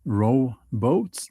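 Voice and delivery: "row boats" as two words, both stressed. Shown as a demonstration. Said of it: "I'm not talking about".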